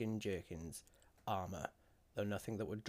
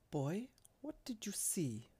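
slow, higher-pitched careful question; 10 semitones higher, slower than usual. A narrator's reading. Clan leader to a frightened lad, slow and careful. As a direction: ask slowly, so as not to alarm. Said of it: "Slowly, so as not to alarm the lad".

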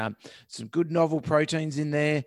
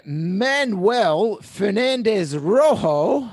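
put-on Spanish accent; 8 semitones higher, 8 dB louder, much slower than usual. Savouring a Spanish name.

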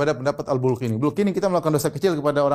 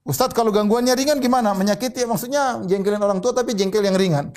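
questioning student; 7 semitones higher than usual. Retold or imitated. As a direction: play a curious student asking the ustadz.

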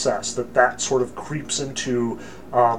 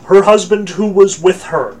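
"who was with her" punched louder and higher; stress on WITH HER; 4 semitones higher, 7 dB louder than usual. Shown as a demonstration. Teacher re-reading the verse to prove Adam was there, emphatic. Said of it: "Notice the emphasis there".

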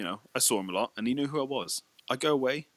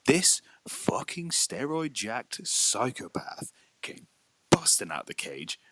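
1 hushed dramatic; much slower than usual. Real, not acted. Dramatic retelling of dog attack.

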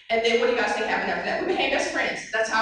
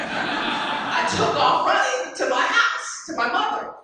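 higher, breathy laughing telling; laughing as she tells it; 7 semitones higher, slower than usual. Real, not acted. Telling the audience how she ran home, laughing. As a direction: laugh through the memory of running.

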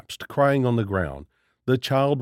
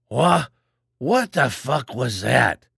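angry outburst; slower than usual. A narrator's reading. Charles shouting at the stranger after the attack, angry. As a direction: spit out the shock and anger. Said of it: "Charles's angry voice rang out".

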